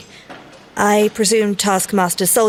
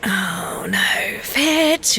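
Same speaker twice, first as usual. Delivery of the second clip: hushed dread whisper; a frightened hush before the boss overhears; anxious whisper; much slower than usual. Acted. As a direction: whisper a warning to a colleague. Dreading Fitz's question to May.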